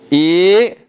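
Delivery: IDEIA broken into i, dei, a; divided into syllables. Shown as a demonstration. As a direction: pronounce Ideia piece by piece, with pauses. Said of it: "Divide ideia, vai lá".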